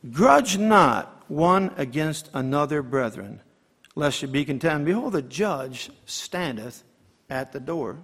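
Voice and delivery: solemn, measured King James reading; scripture reading. Acted. Reads scripture aloud to congregation.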